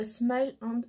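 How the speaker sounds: English shade name in a French accent. Real, not acted. Vlogger reads out the makeup shade's name, French-accented English. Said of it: "Désolée pour mon accent anglais".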